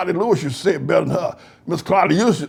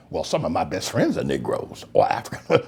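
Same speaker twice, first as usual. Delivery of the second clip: much lower, softer, laughing mock voice; mock excuse; 13 semitones lower, 5 dB quieter than usual. Mocking the best friends excuse, low and soft. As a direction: drop low for the smug excuse.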